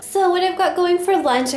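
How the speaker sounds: speaking with the hiccups. Real, not acted. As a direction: hiccups breaking the words. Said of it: "I still have hiccups".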